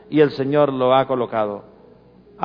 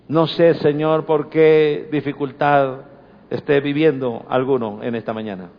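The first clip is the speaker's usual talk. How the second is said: prayer. Acted. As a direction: pray gently over the congregation. Pastor leads closing prayer.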